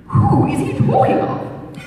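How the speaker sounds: high, slow alarmed question; startled lady, high and slow; startled cry. A narrator's reading. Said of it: "cried Missus Mirvan".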